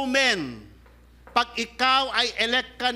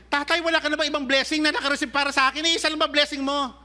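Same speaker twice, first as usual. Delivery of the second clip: fast, higher, anxious pleading son; rushing Esau; 5 semitones higher, faster than usual. Acted. Esau pressing his father, fast and higher. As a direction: rush the question, afraid it's too late.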